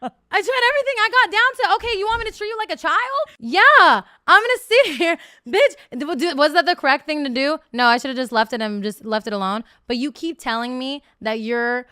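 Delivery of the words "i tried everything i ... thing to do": high, loud, laughing exasperation; exasperated squeal. Real, not acted. Telling her friend how she begged him, high exasperated laughter. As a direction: laugh at your own desperation, pitched high.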